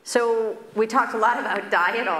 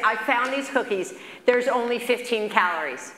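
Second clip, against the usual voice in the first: excited patient; 4 semitones higher than usual. Retold or imitated. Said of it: "he's so excited to say".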